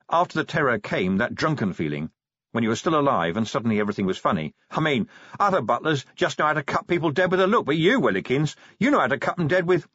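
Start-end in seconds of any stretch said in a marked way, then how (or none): 4.7-9.9 giddy giggling. Acted. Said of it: "Vimes giggled".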